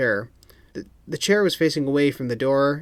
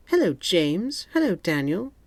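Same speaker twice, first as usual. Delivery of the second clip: Moneypenny voice; 7 semitones higher than usual. A narrator's reading. Moneypenny greets.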